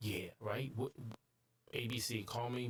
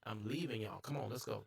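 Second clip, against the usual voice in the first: usual speaking voice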